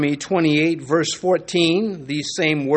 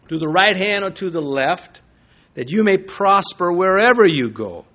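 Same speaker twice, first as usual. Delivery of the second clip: louder, measured reading of the verse; scripture reading; 4 dB louder than usual. Acted. Preacher reading Joshua to the congregation, proclaiming. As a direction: proclaim the passage to the church.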